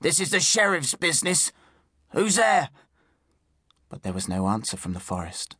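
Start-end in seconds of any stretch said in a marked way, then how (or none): 0.0-2.7 high, insistent calling; shouted challenge. A narrator's reading. Sheriff's man warns hidden bowman, shouting. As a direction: call out with authority, pitched up. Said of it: "Werman shouted into the forest".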